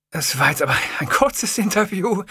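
lightly chirpy Sawatzki; excited. A narrator's reading. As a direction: bubble it out. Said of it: "sagte Sawatzki aufgekratzt".

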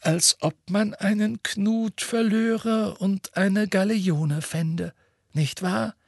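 slow, amused smiling remark. A narrator's reading. Headmaster smilingly teases the minister, slow. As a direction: savour the irony with a smile. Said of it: "sagte Dumbledore lächelnd".

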